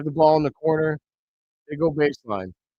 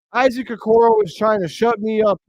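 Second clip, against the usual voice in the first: gloating; 6 semitones higher, 4 dB louder than usual. Real, not acted. Gloating after and-one.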